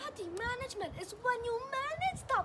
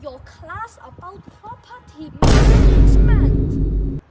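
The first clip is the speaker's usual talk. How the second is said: loud, slow furious yelling; angry shout; 26 dB louder, much slower than usual. Acted. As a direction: drag it out in a rage. Dad scolds the teacher.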